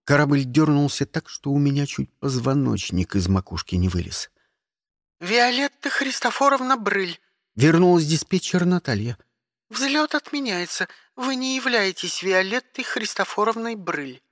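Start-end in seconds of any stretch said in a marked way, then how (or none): 5.2-14.2 high, clipped dispatcher tone; operator voice. Acted. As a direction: speak like a bored spaceport operator. (голос диспетчера)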